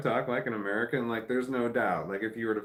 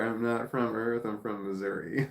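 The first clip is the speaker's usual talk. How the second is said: laughing. Retold or imitated. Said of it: "There's a t-shirt right there".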